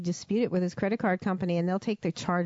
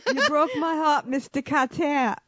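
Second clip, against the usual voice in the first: put-on slow, higher, louder whiny Brooklyn teen; Barbarino impression; 7 semitones higher, 4 dB louder, slower than usual. Co-host does a slow, loud Vinnie Barbarino whine for the group. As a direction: drag it out like a wounded Sweathog. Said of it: "Vinnie Barbarino".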